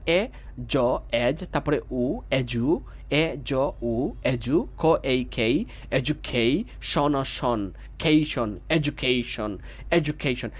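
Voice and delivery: teacher blending "এজু", "কেই", "শন" into "এডুকেশন"; syllable-by-syllable breakdown. Shown as a demonstration. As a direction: sound out "এ, জ, এজ", then add each syllable. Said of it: "এইভাবে আমরা ভেঙে ভেঙে পড়ার".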